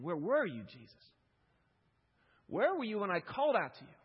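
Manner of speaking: loud, high, slowing anguished plea to Jesus; impassioned cry. Acted. Grieving believer crying out to the Lord, loud anguished lament. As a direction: hurl the questions at God, building to the last.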